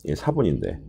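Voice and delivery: ordinary delivery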